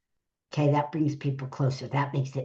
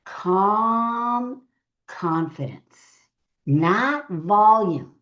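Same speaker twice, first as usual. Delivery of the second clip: slow calm stress; 3 semitones higher, much slower than usual. Shown as a demonstration. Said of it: "intimacy comes from calm confidence".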